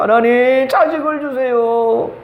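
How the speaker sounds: slow, drawn-out imploring prayer; acted tearful plea. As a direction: beg God, stretching each phrase. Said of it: "하나님 앞에 나와서 눈물을 흘리는 거야". (길게 늘여 간절히 애원하는 기도)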